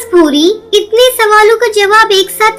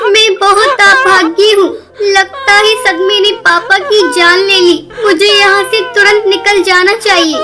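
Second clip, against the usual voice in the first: tearful lament; 3 semitones higher than usual. Acted. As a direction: voice catching in tears, grief-struck. Daughter weeps after father's death. (रोते हुए दुखी आवाज़)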